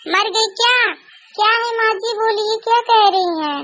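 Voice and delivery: a hint of a nagging mother-in-law, calling and scolding. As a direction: nag the daughter-in-law for her tea. सास बहू को डांटती है. (चिढ़ी हुई सास की डांट)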